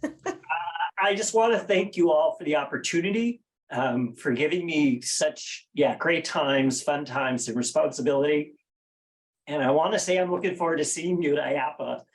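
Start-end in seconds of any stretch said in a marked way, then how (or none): 0.0-8.5 choking up. Real, not acted. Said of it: "I'm choking up here".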